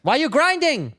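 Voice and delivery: high, scolding mock Asian accent; Asian Karen. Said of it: "you're an Asian Karen".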